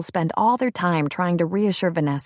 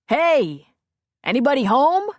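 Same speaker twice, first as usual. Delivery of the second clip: calling out; 7 semitones higher, 4 dB louder than usual. A narrator's reading. Matt calls out on video.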